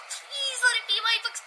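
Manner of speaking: eager, quick little wish; hopeful begging under the breath; hopeful plea. Acted. Girl watching mailman bring the package, hopeful.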